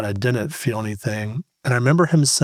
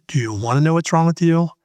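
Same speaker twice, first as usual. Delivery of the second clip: higher and louder, pressing; worried wife; 6 semitones higher, 3 dB louder than usual. Retold or imitated. Wife on the phone pressing her husband, higher and louder. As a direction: press him hard with a high, loud question. Wife calling about the diagnosis.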